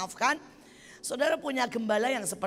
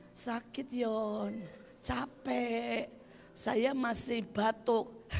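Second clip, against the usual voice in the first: put-on slow, softer sick child's complaint; mild sickly whine; 5 dB quieter, much slower than usual. Sick child complaining softly to Elion. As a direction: drag the words out like a weak sick kid. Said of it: "ngomong gini".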